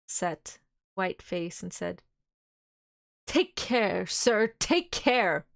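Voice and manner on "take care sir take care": slow, tense warning, a little louder. Acted. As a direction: draw out each word as a grim caution. Arthur warns Van Helsing.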